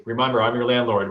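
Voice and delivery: landLORD with the second syllable hit; mock landlord stressing landLORD. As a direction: lean on LORD in landlord. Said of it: "with emphasis on the second syllable".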